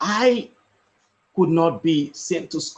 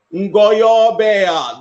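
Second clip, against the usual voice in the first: calling out wares, a bit louder; street vendor's call; 2 semitones higher, 5 dB louder than usual. Retold or imitated. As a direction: hawk vegetables like in the village market. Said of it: "by saying".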